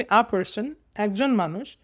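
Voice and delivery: "A person", then "একজন মানুষ" as separate pieces; broken into chunks. Shown as a demonstration. Teacher showing students piece-by-piece reading, broken into chunks. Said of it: "দেখছো আমি ভেঙে ভেঙে পড়তেছি".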